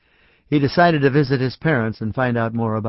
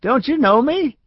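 shouting at the dog; 10 semitones higher, 3 dB louder than usual. A narrator's reading.

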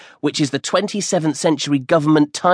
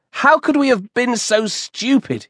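put-on higher, fast, eager ten-year-old boy; excited boy; 10 semitones higher than usual. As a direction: rush it out like a thrilled kid on his birthday. Compton despairs over lost sandwich.

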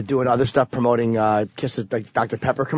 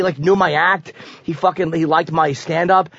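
usual speaking voice

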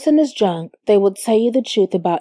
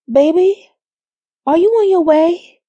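concerned; 9 semitones higher, 4 dB louder than usual. A narrator's reading. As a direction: ask your partner with concern, voice lifted. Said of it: "concerned about my baby's father".

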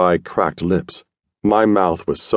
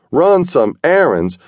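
higher, slower disbelief; incredulous spat; 9 semitones higher, 4 dB louder, slower than usual. A narrator's reading. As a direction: throw his words back at him in disbelief. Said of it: "Yancey spat".

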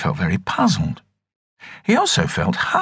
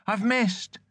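frightened cry; 11 semitones higher, 9 dB quieter than usual. Acted. Dreaming Frank cries out.

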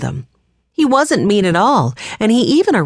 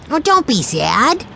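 put-on higher, slower little-boy voice; young Benny comforting; 8 semitones higher, slower than usual. A narrator's reading. Benny cheering up his glum siblings, higher and gentle.

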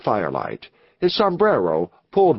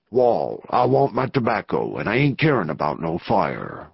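lightly voiced low outlaw boss; surly gang leader; 5 semitones lower than usual. Gang leader refuses to share his tobacco, surly low outlaw. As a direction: drop into a hint of a Western outlaw.

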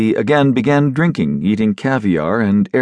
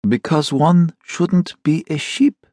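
slow, even reply; calm secretary, lightly voiced; calm answer; 7 semitones higher, slower than usual. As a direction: answer coolly, unbothered. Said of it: "the secretary answered calmly".

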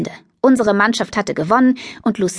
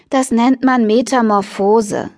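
slow, schoolmarmish correction; lecturing; slower than usual. Acted. Sarah lectures Lucilla on metamorphosis, slowly and primly. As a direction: set her straight like a teacher. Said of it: "belehrte Sarah sie".

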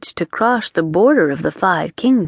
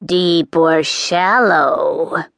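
croaked; much slower than usual. Acted. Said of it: "the witch croaked".

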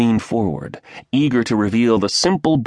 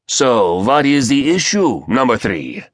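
louder, impatient raspy demand; 6 semitones higher, 3 dB louder than usual. Acted. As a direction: snap the question, out of patience. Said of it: "The raspy voice grew impatient".

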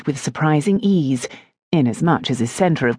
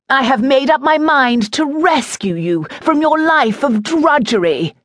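lovesick lord, voiced much higher; earnest suitor begging, raised pitch; Dibbleshire pleading; 11 semitones higher, 3 dB louder than usual. A narrator's reading. Lord declaring his devotion to India, lovesick and higher.

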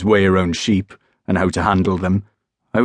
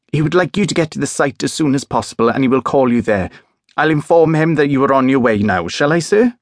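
higher, breathless rush of a thrilled dispatcher; eager excitement; 6 semitones higher than usual. Acted. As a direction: savour every word of the big news. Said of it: "It was excitement".

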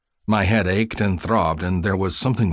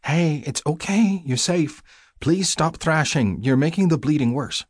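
caring, soothing; 8 semitones higher than usual. A narrator's reading. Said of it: "low and caring".

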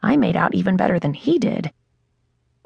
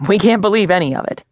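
awkward laugh; 3 semitones higher, 3 dB louder, faster than usual. Acted. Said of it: "laughs awkwardly".

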